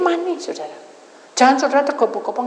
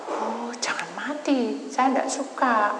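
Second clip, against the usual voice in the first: pleading whisper; 3 semitones higher, 3 dB quieter, slower than usual. Retold or imitated. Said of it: "Terus saya nangis".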